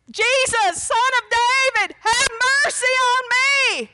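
high, drawn-out pleading cry; crying out for mercy. Retold or imitated.

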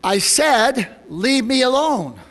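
slow, firm retold refusal; not as nice. Lady answering a persistent door-knocker, not quite as nice. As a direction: repeat it with the niceness gone. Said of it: "not quite as nice".

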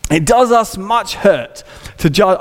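lightly voiced Victorian preacher, measured; a hint of slow, formal pulpit oratory; Charles Spurgeon. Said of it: "a nineteenth century Spurgeon voice".

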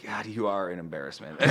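laughing dad jab. Retold or imitated. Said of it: "And he's just like".

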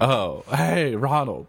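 high, slow goofy zombie voice. Pretend. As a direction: groan it out like a silly zombie. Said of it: "I'm a zombie".

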